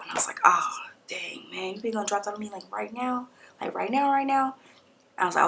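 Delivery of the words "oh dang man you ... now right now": hushed, stunned disbelief, barely voiced; stunned whisper. Patient whispering back to her doctor, stunned and hushed. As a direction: whisper it like the news just floored you.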